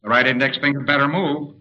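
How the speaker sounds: mild warning, pressed a little; understated impatient command; firmer order. Acted. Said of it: "he'll get to the point after a while".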